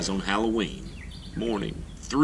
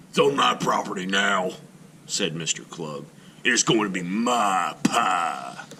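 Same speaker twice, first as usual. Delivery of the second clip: smug grouch. Acted. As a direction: claim it like a gloating miser. Klug claims pumpkin.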